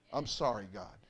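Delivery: soft, low, humble apology to God; quiet shared repentance; hushed prayer. Pretend. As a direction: lead the church in a quiet plea.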